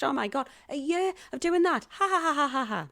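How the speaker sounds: hammed-up horror tipping into ha-ha-ha; mock hysteria. Actress joking to partner about year contract, mock hysteria.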